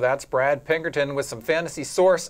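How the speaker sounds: lifted sportscast outro, easing down at the end; punchy studio sign-off; broadcast sign-off. Acted. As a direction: wrap up the segment for the audience. Host signs off the show.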